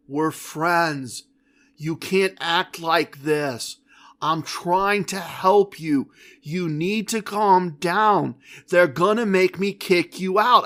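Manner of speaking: a soothing security guard pleading for calm. Retold or imitated. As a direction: talk him down gently and slowly. Security guard calming the gambler.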